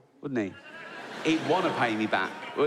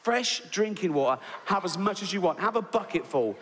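patronising host; 3 semitones higher than usual. Acted. Showing off tap water to boy.

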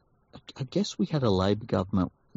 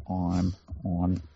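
mock phone answer; 3 semitones lower, much slower than usual. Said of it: "I'll have to decline it and say".

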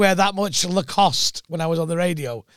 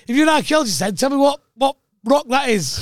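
indignant retort; 7 semitones higher than usual. Retold or imitated. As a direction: snap back at the heckler in disbelief. Comic challenges heckler, retold.

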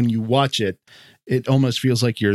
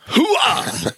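Marine hoo-ah; 13 semitones higher than usual. Pretend. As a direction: shout it like a Marine. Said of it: "channel my inner Marine".

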